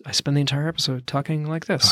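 a hint of radio announcer; lightly put-on radio host read. Shown as a demonstration. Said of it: "Talking like a radio person".

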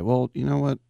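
put-on father baiting his son about the big boys, low and dry; dad's cold taunt. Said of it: "my dad would say".

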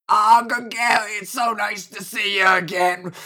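high, loud, drawn-out auntie voice; big lady's gushing greeting. Acted. Auntie welcoming Gregory home, gushing character voice. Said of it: "this big lady turns around".

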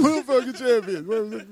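John Travolta knockoff. Acted. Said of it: "You sound like a knockoff of John Travolta".

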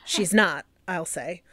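lightly voiced 1920s newsreel announcer; a hint of an old radio newsreader; old-timey voice. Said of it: "I'm gonna use my old, old-timey voice".

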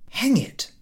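high, sharp curse under breath; annoyed mutter. A narrator's reading. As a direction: curse yourself in a fret. Ahiniv's angry thought.

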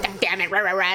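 low grumbling imitation of a husband; mock bitching. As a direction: imitate someone griping, dissolving into nonsense syllables. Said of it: "he's bitching".

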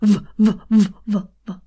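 fading V sounds. Shown as a demonstration. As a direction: start loud on the V and fade down. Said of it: "start loud and get quieter".

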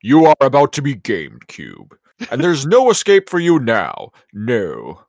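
hammed-up menacing announcer; intimidating male voice. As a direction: play at taunting trapped players. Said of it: "an intimidating male voice".

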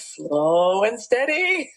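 slow, stretched-out vowels; lingering on each word; drawn-out delivery. Retold or imitated. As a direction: draw out the words in mild mock exasperation. Retold husband stretches the words.

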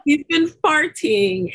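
1 laughing. Real, not acted. Laughing at husband's farting.

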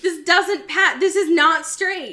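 loud, high laughing protest; laughing declaration. Real, not acted. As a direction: shout it through laughter.

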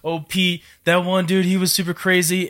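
mildly excited war-story reminiscing, rising in pitch; retold excitement. Husband retelling how he raved about deployments, mildly excited. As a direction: imitate your old eagerness, only a touch worked up. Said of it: "I used to get so excited".

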